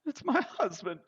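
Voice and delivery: high, tearful widow voice; grieving widow. Acted. Widow telling strangers it's her husband, high and tearful. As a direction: say it through grief, pitched high.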